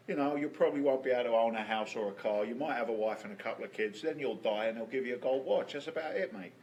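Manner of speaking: a light London accent, dad's working-class voice; London accent, retelling his father's words. Shown as a demonstration. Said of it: "I'm gonna go into my London accent".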